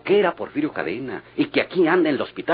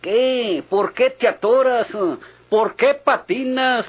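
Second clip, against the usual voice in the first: higher, louder needling questions; teasing interrogation; 9 semitones higher, 4 dB louder, slower than usual. Acted. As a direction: press him hard, mocking his stammer. Friend presses him on what he hid. (interrogatorio burlón e insistente)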